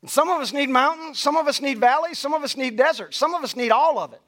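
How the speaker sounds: steady, rhythmic preaching refrain; preaching cadence. Acted. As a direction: drive each line home like a refrain.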